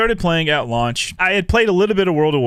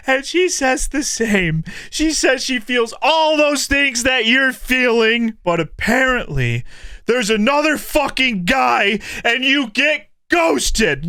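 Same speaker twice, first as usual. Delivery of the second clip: high, chirpy hammed-up cheer over bad news; sing-song like a cheerful parent bottling feelings; comic mock cheer; mock self-soothing voice; 6 semitones higher than usual. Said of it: "I'm exaggerating a shit ton".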